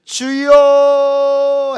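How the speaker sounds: long drawn-out cry to the Lord. Shown as a demonstration. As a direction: stretch out the call, crying from the depths. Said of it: "어떻게 한다고요". (길게 부르짖는 외침)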